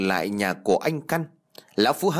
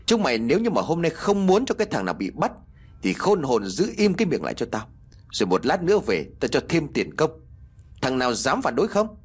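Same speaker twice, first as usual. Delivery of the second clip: menacing, raised voice of a master; threatening boss; 4 semitones higher than usual. Acted. Phú threatens torch-bearing servants into silence, menacing.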